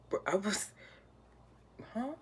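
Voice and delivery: high, loud stunned huh. Retold or imitated. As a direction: caught completely off guard. Shocked by mom's question.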